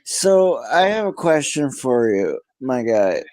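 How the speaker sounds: groggy, just-woke-up voice; sleepy voice. Real, not acted. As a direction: sound half asleep and tired. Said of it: "You sound like you just woke up or you're high as hell".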